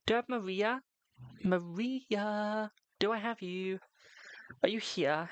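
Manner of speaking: high, drawn-out roll-call; high singsong calling; calling for someone. Real, not acted. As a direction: call out the name in a high, searching lilt. Calling for a viewer.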